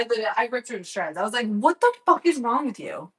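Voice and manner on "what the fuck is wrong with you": higher-pitched, indignant question; retold pissed-off outburst. Vlogger retelling how she ripped into friend, indignant. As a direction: replay the telling-off with some heat. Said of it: "I was pissed at her too".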